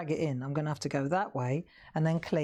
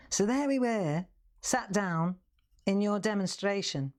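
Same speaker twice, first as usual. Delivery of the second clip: slightly raised Scouse storytelling; Hilda; 3 semitones higher than usual. Retold or imitated. Customer recounting the demonstration, light Scouse. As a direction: imitate a Liverpool customer, lightly. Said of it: "So then Hilda says".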